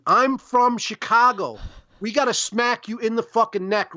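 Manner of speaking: slow, deliberate I'm from Chicago; slow warning. Shown as a demonstration. Warning someone off, slow and deliberate. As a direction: lay it out slowly as a warning. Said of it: "it's a warning".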